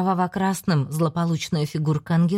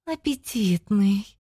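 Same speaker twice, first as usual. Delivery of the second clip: drawn-out hungry demon; 3 semitones higher, much slower than usual. Acted. Demon relishes the scent.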